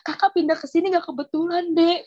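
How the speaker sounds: convincing assurance. Retold or imitated. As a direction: imitate the neighbour convincing her. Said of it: "dia meyakini saya". (menirukan kakak yang meyakinkan)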